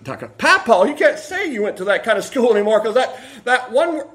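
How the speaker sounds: quoting a family member. Retold or imitated.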